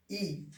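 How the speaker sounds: "ई" said as a small, soft short i; short i sound. Shown as a demonstration. Teacher giving the first sound of letter i, short i. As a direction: say "ई" briefly and softly. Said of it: "छोटा ई".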